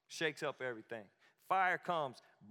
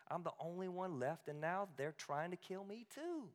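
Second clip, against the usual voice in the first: changed tone; 5 semitones higher than usual. Retold or imitated. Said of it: "the tone changed".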